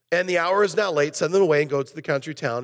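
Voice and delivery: snappy read. Retold or imitated. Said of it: "If you notice how I read it".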